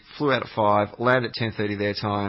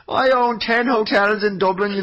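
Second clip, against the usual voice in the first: mocking a boaster; 9 semitones higher, 4 dB louder, slower than usual. Mocking a name-dropping Irish guy.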